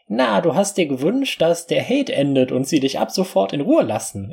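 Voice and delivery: high, squeaky little fairy; a tiny fairy speaking. Acted. Narrator voices the fairy.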